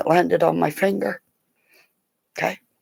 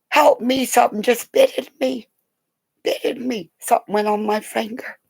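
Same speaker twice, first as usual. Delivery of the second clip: higher, loud mock-frightened cry for help; mock panic; 8 semitones higher, 4 dB louder than usual. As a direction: play the scared mom squealing. Mother retells panicked plea.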